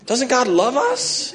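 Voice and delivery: high, slow mock whine; mock-distressed high whine over the bank account; whiny high complaint. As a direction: whine it up high like a worried child. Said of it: "I'm like".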